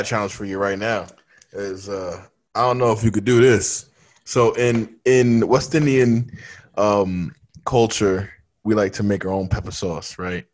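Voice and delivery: low, unhurried hint of an anime villain; lightly voiced scheming villain setting up a threat; slow theatrical villain menace. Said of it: "why do you sound like the villain on every major anime?".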